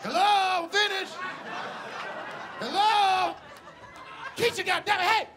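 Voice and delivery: high, drawn-out call for attention; acted impatient patient calling from another room. Abandoned patient calls from tub.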